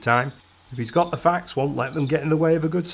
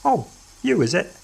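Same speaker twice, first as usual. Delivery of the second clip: unenthusiastic; 5 semitones higher than usual. A narrator's reading. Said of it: "he acknowledged, unenthusiastically".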